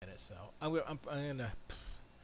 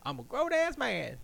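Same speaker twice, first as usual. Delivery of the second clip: high loud mock protest; mock indignant shout; 13 semitones higher, 7 dB louder than usual. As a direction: bellow it like a put-upon husband. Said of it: "I was like".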